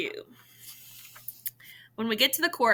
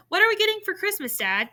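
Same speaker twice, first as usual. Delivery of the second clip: eager question; 10 semitones higher, 3 dB louder than usual. A narrator's reading. Eager kid asking dad.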